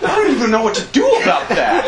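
fast, high panicked rambling; panicky medic. Retold or imitated. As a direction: rattle it off in panic. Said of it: "looks at me and goes".

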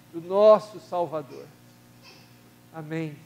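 steady, devout prayer voice addressing God; earnest prayer. Acted. Leading the church in prayer for the sick, earnest prayer voice. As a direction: pray aloud for the congregation, unhurried and solemn.

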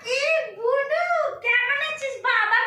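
slow, loud, stretched-out greeting; a big sing-song welcome for a visiting sister; drawn-out welcome. Acted. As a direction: drag out each word in delight.

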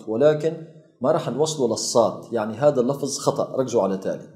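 ordinary talk, nothing marked

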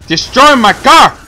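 loud, high, slow anguished yell; outraged shout. Real, not acted. Player wails as his car is destroyed, loud and slow. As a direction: wail at your car being wrecked.

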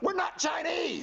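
indignant denial. Acted. Repeats denial, higher.

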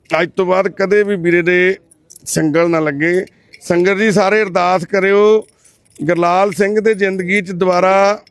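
loud, measured proclamation; public appeal. Real, not acted. Asking the congregation to pray for Gurlal, loud proclamation.

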